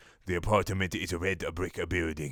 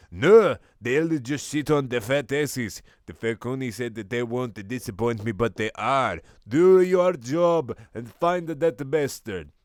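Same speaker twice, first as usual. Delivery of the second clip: angry boss; 3 semitones higher, 4 dB louder than usual. Acted. Ken furious at henchman.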